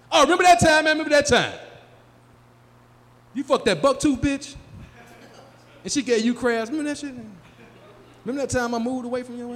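high, loud, gleeful "Remember that time?"; excited reminiscing. Retold or imitated. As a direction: hype it up like a nostalgic buddy. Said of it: "Their favorite phrase is".

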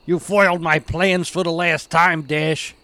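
mock villain vow; hammed-up beaten villain; sputtering foiled villain.

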